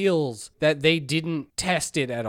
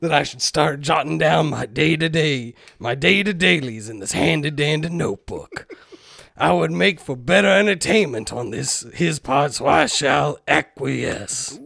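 put-on Southern accent. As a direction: read it grandly with a bit of Southern. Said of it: "I like that bit of Southern".

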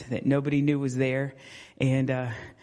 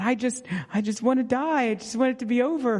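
imitating upset daughter; 8 semitones higher, faster than usual. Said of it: "And she said".

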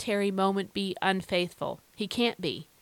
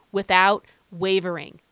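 louder "without wavering" with falling end; outside voice; 6 dB louder than usual. Shown as a demonstration. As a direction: say "without wavering" firmly aloud. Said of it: "use my outside voice when I say those two words".

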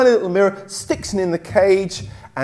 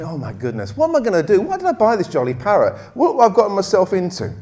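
lightly acted fretful parrot owner; mildly exasperated; faster than usual. Parrot owner wondering what she got herself into, mildly exasperated. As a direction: fret to yourself in mild mock dismay.

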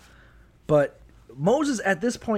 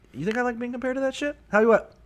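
angry dad rant; 4 semitones higher, faster than usual. Acted. God as angry dad scolding his kids, fast rant.

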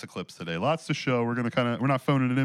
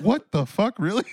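mock shock; 10 semitones higher, 6 dB louder than usual. Shocked by nurse's news.

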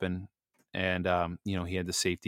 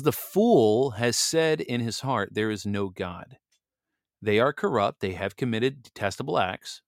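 scripture reading. Acted. Reading Psalm fourteen to the listeners, solemn and measured. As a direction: read the psalm aloud with measured weight. I promise to read this properly now.

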